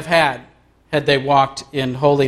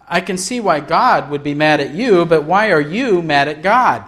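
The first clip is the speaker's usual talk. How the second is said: "you" and "God" each lifted in pitch; contrastive stress; 3 semitones higher than usual. A narrator's reading. Counselor challenges the man mad at God, stressing "you" and "God". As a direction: set "you" against "God" with rising peaks.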